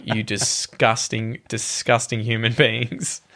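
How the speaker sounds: slow, drawn-out mock revulsion; mock disgust. Onlookers scolding the first kissers in the tribe, mock disgusted. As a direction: dwell on each word, appalled but joking.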